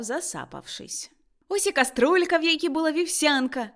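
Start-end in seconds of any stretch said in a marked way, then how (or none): 1.5-3.7 high, delighted outburst; thrilled, raised voice; excited exclamation. A narrator's reading. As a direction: exclaim it in happy discovery. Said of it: "вигукнув він".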